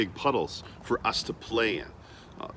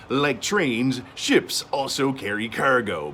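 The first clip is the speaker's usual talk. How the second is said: louder gruff sailor voice; 2 semitones higher, 3 dB louder than usual. Pretend. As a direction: talk like a hearty old sailor. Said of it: "I need to use my sailor voice".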